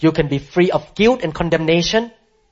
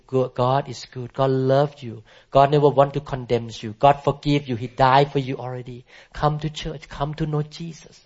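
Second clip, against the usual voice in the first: softer, quiet, kindly invitation; gentle smiling witness; 2 semitones lower, 4 dB quieter than usual. Retold or imitated. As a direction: speak softly, smiling at the man.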